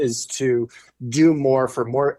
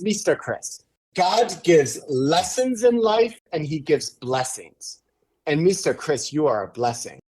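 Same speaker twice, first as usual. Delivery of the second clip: tearful. Retold or imitated. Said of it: "and he's crying".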